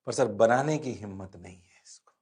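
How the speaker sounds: low whispered pupil confession; whispering student. Acted. Student confessing to the teacher he dare not draw it, whispering. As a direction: whisper it like a student short of courage.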